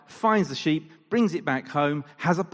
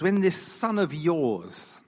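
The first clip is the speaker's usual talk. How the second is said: slow, pointed 'this son of yours'; cold, distancing; 3 semitones higher, slower than usual. Retold or imitated. Older son coldly disowning his brother to the father.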